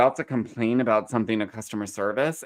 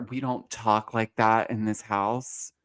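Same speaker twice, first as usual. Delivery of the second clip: imitating Whitney; 6 dB quieter than usual. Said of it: "reprimanding Lisa Barlow and her".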